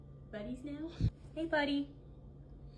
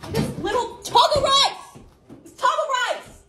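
indignant complaint; 4 semitones higher, 5 dB louder than usual. Real, not acted. Quarrel over eaten chicken.

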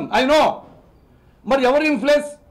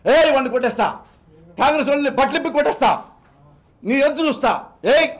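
Pawan Kalyan; 3 semitones higher than usual. Retold or imitated. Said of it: "అన్నావు".

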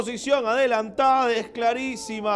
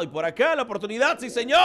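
breakneck commentary; 3 semitones higher, much faster than usual. Real, not acted. Chance commentary.

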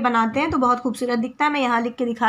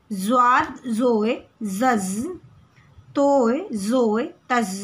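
slow letter drill; much slower than usual. Shown as a demonstration. Teacher drilling children on Urdu letters, slow clear recitation. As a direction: sound out each letter, then the joined syllable, with pauses between.

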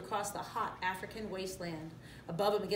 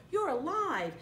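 high, louder excited announcement; exclaiming; 10 semitones higher, 4 dB louder, slower than usual. A narrator's reading. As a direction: proclaim the great news, stretching the end. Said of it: "Nala exclaimed".

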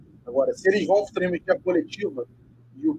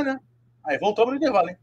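ordinary talk, nothing marked

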